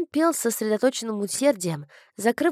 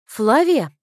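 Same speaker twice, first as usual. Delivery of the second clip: calling out; 6 dB louder than usual. A narrator's reading. Sister catches Flavia slipping away, calling out loudly. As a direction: call sharply to catch someone.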